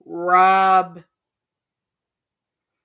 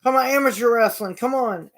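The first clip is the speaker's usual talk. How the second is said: mocking crowd; 6 semitones higher, 4 dB louder than usual. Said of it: "they was like".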